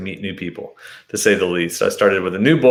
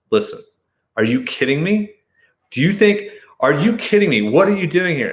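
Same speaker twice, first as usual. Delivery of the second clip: higher, indignant berating; going on the offensive; 7 semitones higher than usual. Retold or imitated. Man in boxers berating armed searchers, higher and indignant. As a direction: berate them, pitch climbing. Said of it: "I just went offensive".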